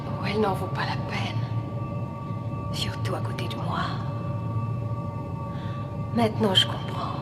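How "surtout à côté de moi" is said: whispering. Acted. Seductive villain whisper.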